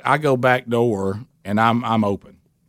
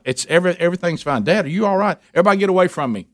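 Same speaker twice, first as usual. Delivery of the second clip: mimicking the worried women; 6 semitones higher, much faster than usual. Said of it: "the women are like".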